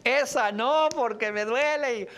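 high, loud, wailing cries of heartache; mock pained yell. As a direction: yell it like a lovesick Mexican song. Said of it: "esos gritos". (gritos de dolor exagerados y agudos)

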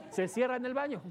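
normal talking voice

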